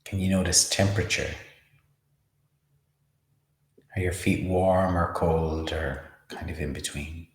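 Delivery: unhurried meditation guide, long pauses; measured, spacious mindfulness instruction; guided meditation. Acted. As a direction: lead a body scan calmly, leaving space between phrases. Leads a body-scan meditation.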